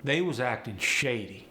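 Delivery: AAVE delivery, forward placement. Shown as a demonstration. Teacher showing "was" for "were", AAVE. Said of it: "How about this one".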